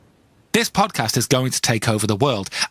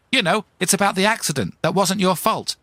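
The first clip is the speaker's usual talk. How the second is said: female cold caller; 7 semitones higher than usual. Acted. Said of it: "And she goes".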